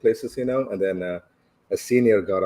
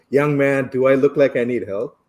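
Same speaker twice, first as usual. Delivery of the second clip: put-on raised voice of an indignant old lady; mock scolding; 3 semitones higher, 6 dB louder than usual. Old lady rebukes a young man on the bus, mock scolding. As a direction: imitate being told off, higher and louder. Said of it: "I got yelled at by that lady".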